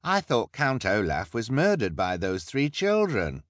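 interrupt, suddenly doubtful; a bystander objecting; suspicious onlooker. A narrator's reading. Crowd member voiced.

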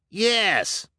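high eager call. Acted. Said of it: "called out a member".

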